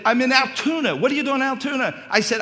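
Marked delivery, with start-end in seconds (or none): 0.0-0.9 calling out high and loud to be heard; raising voice on phone. Retold or imitated. Son shouting to his dad on the phone. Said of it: "raising my voice". 0.9-2.0 loud, high confused call; loud phone shout. Retold or imitated. Father shouting back at his son on the phone. Dad on bad phone line.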